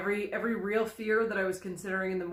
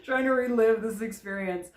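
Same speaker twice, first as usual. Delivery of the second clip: higher, louder, strained with real anxiety and a nervous laugh; getting anxious for real; 6 semitones higher, 6 dB louder than usual. Real, not acted. Reliving her panic attack for viewers, real anxious rising voice. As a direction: voice climbing as the anxiety comes back while she talks. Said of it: "I'm getting anxious".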